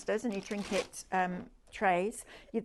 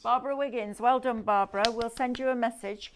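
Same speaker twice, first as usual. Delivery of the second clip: hyped giveaway announcement; 3 semitones higher, 6 dB louder than usual. Real, not acted. Announcing the prize wheel winner.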